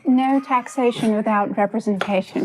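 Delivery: putting on a British accent; forced British accent. Shown as a demonstration. Guest performs a line on request, forced British accent. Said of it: "Say something, like, really British".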